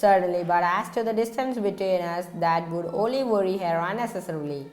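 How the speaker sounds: even, unhurried audiobook reading; steady storyteller voice; story narration. A narrator's reading. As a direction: read the novel aloud to listeners. Reads a novel aloud.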